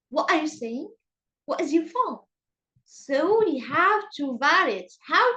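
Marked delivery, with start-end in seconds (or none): 0.1-2.2 "What is your phone" let down at the end; falling intonation. Shown as a demonstration. Teacher modelling wh-questions for the class, falling intonation. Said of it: "or double action questions".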